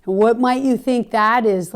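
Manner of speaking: scornful rhetorical jab; sarcastic. Retold or imitated. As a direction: needle him with a sarcastic retort. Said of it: "Like, sarcastically".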